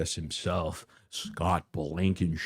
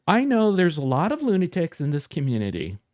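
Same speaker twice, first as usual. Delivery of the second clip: mocking his words; 9 semitones higher, 3 dB louder, faster than usual. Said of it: "look at him over here".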